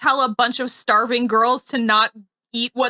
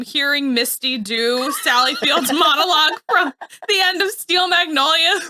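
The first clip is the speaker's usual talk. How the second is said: laughing; 2 semitones higher than usual. Real, not acted.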